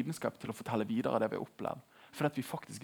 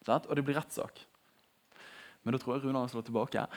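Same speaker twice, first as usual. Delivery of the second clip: usual speaking voice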